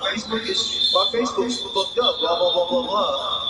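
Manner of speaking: a hint of a sarcastic girlfriend impression; mocking girlfriend's excuse. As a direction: parrot her lame excuse in a mild mock voice.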